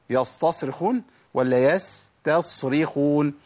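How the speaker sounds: slow يستصرخون twice, comparing the س and ص; contrasting s and sad. Shown as a demonstration. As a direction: draw out both versions of يستصرخون. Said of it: "ما أقولش يستصرخون".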